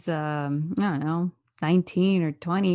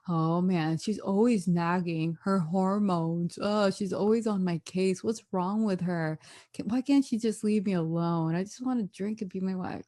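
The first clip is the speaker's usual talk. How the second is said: imagined Jovi grumbling; 2 semitones lower, 6 dB quieter than usual. Retold or imitated. Imitating Jovi complaining to himself about Yara, mild grumble. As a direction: grumble to yourself under your breath, mock-weary. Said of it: "Jovi in his stupid mind just thinking".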